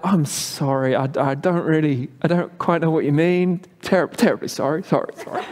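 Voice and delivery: flustered, over-apologetic Englishman; polite English apology. Retold or imitated. Quoting his own flustered apology to the elders, over-apologetic English. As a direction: stammer out sorries, fading to a breath. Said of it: "Did my English kind of".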